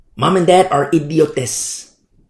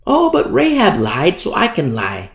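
mocking excuse; 5 semitones higher than usual. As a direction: mimic someone excusing themselves. Mimics parents' excuse for lying.

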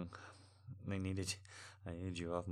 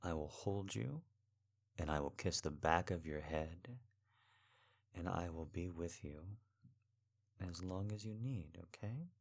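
tender reassurance; 2 semitones lower than usual. Acted. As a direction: soothe them gently and steadily. Comforting a crying partner.

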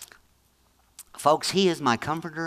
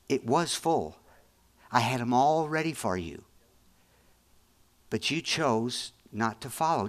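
softer, gentle God voice, without condemning; gentle rebuke; 4 semitones lower, 3 dB quieter than usual. Retold or imitated. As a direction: lovingly point out the missed chance. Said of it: "He said".

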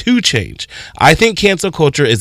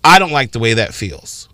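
calm explaining; slower than usual. Retold or imitated. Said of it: "a point for you to say".

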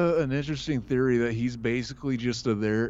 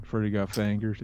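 Midwestern accent, a bit lower; 3 semitones lower than usual. Shown as a demonstration. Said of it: "we need the Midwestern accent version".

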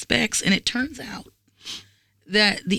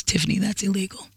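dead serious; 2 semitones lower, 4 dB quieter than usual. Retold or imitated. Man humorlessly scolding the woman over her joke, dead serious. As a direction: deliver it quietly, as if no joke at all. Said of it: "Dead serious. He goes".

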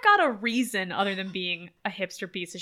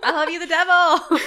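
laughing; 8 semitones higher, 9 dB louder than usual. Retold or imitated. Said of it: "it just made me be like".

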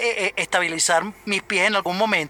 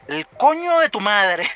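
slow, dragged-out stunned curse; slow disbelief; much slower than usual. Retold or imitated. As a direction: let each word sink in, appalled. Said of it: "mi cara es que". (incredulidad lenta y arrastrada)

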